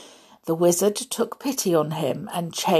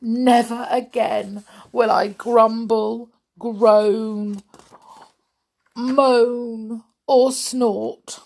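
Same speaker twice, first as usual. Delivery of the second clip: earnest vow, higher and measured; raised-voice pledge with weighty pauses; solemn promise; 4 semitones higher, 4 dB louder, slower than usual. A narrator's reading. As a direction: swear it word by word. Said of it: "made a solemn promise".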